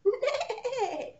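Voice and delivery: high, loud laughing neigh; whinny like a horse, giggling. Shown as a demonstration. Teacher showing preschoolers the horse sound, neighing. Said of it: "it makes a sound like this".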